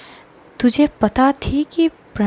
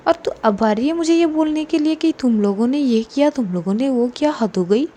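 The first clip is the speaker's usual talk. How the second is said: sarcastic rant. Acted. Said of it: "Simmi इतनी frustration में थी".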